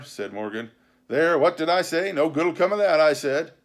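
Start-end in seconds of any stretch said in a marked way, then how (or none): 1.1-3.5 louder, higher I-told-you-so; grumbling pirate. A narrator's reading. Pirate crewman reminding his mates he warned them, grumbling. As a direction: complain as a vindicated pirate crewman.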